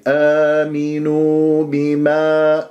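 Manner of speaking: slow recitation with long held vowels; tajweed recitation. Shown as a demonstration. Teacher recites آمنوا بما for students, slow measured tajweed.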